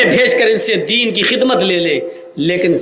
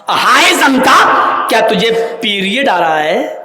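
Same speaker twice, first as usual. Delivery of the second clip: mock stern shout; 3 dB louder than usual. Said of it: "حضرت عمر نے اس آدمی سے کہا".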